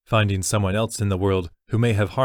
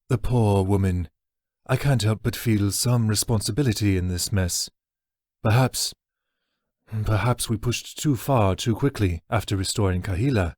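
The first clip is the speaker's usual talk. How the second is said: regretful orc elder. Acted. Orc Tagathis voiced, rueful.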